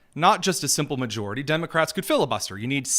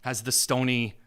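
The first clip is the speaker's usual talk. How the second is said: mocking; 3 semitones lower than usual. Mocking protester on video.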